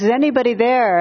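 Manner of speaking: storyteller's mild cry for help; mock terrified call. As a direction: lightly act out calling for anyone in earshot. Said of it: "in terror, he screams out".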